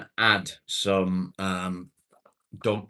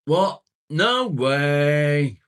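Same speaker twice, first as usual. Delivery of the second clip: sudden loud high yelp of disbelief; shocked; 8 semitones higher, 11 dB louder, much slower than usual. Real, not acted. Streamer gasps at a chat message, shocked. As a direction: blurt it out in real shock.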